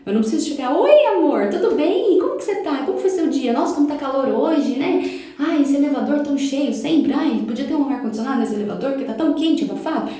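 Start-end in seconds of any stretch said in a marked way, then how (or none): 0.7-2.2 higher, louder gushing best-friend greeting; overfriendly gushing. Shown as a demonstration. Gushing at a stranger as if a super friend, higher and louder. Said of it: "criar um roteiro e virar super amiga". 2.2-10.1 gushing small talk. Shown as a demonstration. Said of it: "virar super amiga da pessoa".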